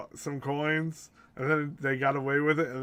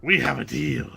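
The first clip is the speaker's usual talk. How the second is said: failed Barbosa voice; 7 dB louder than usual. Pretend. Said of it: "can't do his voice anymore".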